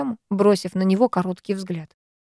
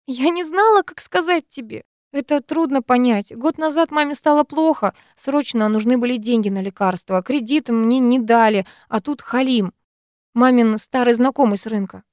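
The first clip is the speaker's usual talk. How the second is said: tearful confession; 4 semitones higher than usual. Acted.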